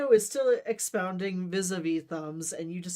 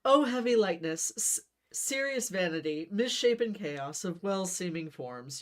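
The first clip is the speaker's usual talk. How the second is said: grand declaiming; 2 semitones higher than usual. Acted. Romeo pressing his poetry at Benvolio, lofty declaiming. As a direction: keep orating with hand outstretched. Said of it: "still holding your hand out in front of you".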